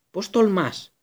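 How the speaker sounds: loud, furious roar. A narrator's reading. Black roaring at Pettigrew's accusation, furious. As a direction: bellow it like a huge dog. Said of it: "βρυχήθηκε".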